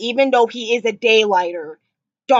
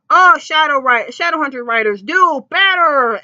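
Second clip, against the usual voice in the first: calling out; 5 semitones higher, 5 dB louder than usual. Real, not acted. Calling out the show's writers.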